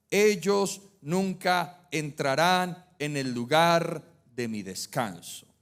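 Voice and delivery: measured, emphatic Bible reading; solemn read-aloud with weighted words; scripture reading. Acted. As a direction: proclaim the verse firmly, phrase by phrase. Reads the Psalm aloud, solemnly.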